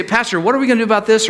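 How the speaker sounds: anxious question. Retold or imitated. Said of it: "When people say".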